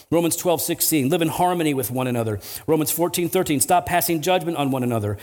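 brisk run through scripture verses; quick recital of references and commands; rapid-fire list reading. Real, not acted. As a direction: read them off one after another without lingering. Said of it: "I'm gonna read them off fast".

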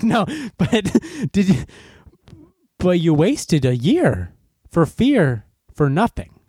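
slow mocking inner thought; a hint of snide inner monologue; inner blunt voice. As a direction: scoff at it slowly in your head. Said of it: "But in my brain".

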